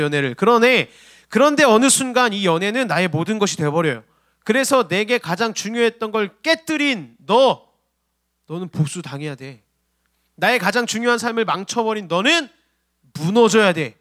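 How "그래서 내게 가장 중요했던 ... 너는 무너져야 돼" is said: acted resentment. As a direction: voice a bitter jilted lover, drawn out. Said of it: "여기서 원망이 나온다는 겁니다".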